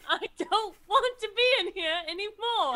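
a hammed-up scared whimper; mock whimper. Slime telling Doc they want out, mock whimpering. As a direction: whine it like a frightened kid.

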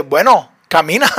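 matter-of-fact, casual go-ahead; super casual. Retold or imitated. Jesus answering Peter's request to walk on water, super casual. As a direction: say it as if totally normal. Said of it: "Así súper normal".

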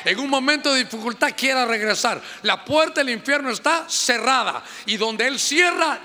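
preaching at full force. Acted. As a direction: drive it home to the church.

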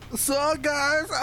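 booming tipsy uncle greeting; drunk uncle. Retold or imitated. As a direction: holler it like the drunk uncle at Christmas. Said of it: "sounded like an, the drunk, uncle at every Christmas party".

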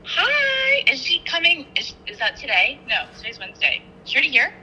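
high, surprised questions. Real, not acted. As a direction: caught off guard, voice jumps up. Surprised a friend is there.

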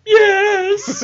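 very high, loud mock-child squeal; child's wailed yes. Dad imitating daughter admitting why she apologised, high wail. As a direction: imitate a child wailing an admission. Child's answer voiced by parent.

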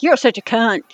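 put-on Southern accent. Shown as a demonstration. Showing how an insult sounds in a Southern accent. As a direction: say it with a Southern twang. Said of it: "say it with a Southern accent".

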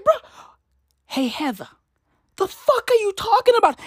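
high-pitched, indignant challenge; mock outrage. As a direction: confront her in exasperated disbelief. Mock confrontation of the writer.

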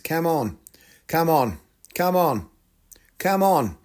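"come on" in a rough Australian accent; Antipodean-sounding "come on"; Australian or South African accent. Shown as a demonstration. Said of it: "Australian or maybe a South African accent".

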